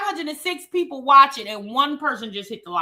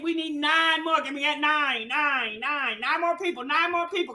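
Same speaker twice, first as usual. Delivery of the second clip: auctioneer. Pretend. Host begging chat for likes, light mock auction call. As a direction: rattle off the bid numbers like a playful auctioneer. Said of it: "I sound like I'm at an auction".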